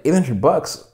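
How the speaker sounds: high, laughing disbelief; giddy, laughing as you say it; chuckling eager offer; laughing excitement. Retold or imitated. Thrilled at the $800 offer.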